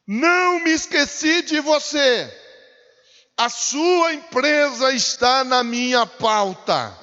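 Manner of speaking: loud, high prophetic preaching; full-force preacher declaring a divine promise; God's message proclaimed. Acted. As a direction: thunder out God's reassurance. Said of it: "ele tá me mandando dizer".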